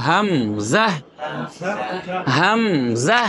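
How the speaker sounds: হামজা in two measured syllables, rising at the end; no elongation. Shown as a demonstration. Teacher drills হামজা for repetition, no elongation. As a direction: model হামজা with no long final vowel. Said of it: "কোনো মাদ হবে না".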